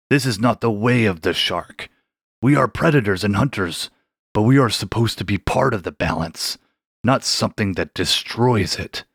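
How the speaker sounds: put-on an old shark humbly apologizing; ashamed ancient shark.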